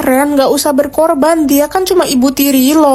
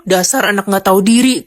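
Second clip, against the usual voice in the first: mean scolding; 6 semitones lower than usual. Acted. Stepmother scolds child.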